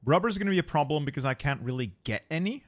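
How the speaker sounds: talking while chewing food; mouth full. Real, not acted. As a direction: speak through a bite. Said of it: "I'm talking with my mouth full".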